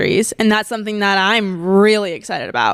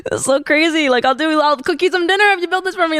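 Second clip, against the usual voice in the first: bargaining sweetly; 6 semitones higher, faster than usual. Retold or imitated. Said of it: "you're just like".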